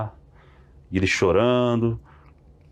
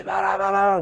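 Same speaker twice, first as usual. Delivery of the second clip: imitating tongues; 10 semitones higher, slower than usual. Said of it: "bem alto".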